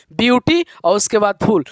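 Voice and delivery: "ब्यूटी" set apart, then "फुल" on its own; word split in two. Shown as a demonstration. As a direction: show the two pieces "ब्यूटी" and "फुल" separately. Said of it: "दो बार में हो रहा है". ("ब्यूटी" और "फुल" अलग-अलग करके बोलें)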